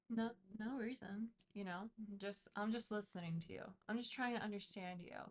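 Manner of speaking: soft, airy and calm, almost meditative. Shown as a demonstration. Reader demos how to talk softly to a fussing partner, soft and airy. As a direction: soothe an angry person by going soft. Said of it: "speak in a very airy, meditative way".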